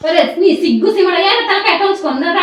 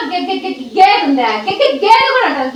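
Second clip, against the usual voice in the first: mock stammer. Reading a stammered essay aloud.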